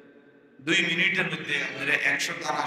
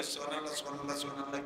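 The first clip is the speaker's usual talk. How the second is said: mock rushed tasbih; 11 dB quieter, faster than usual. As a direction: imitate hurried, slurred "সুবহানাল্লাহ". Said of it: "এত তাড়াহুড়ো". ("সুবহানাল্লাহ" তাড়াহুড়োর নকল করে নিচু আওয়াজে)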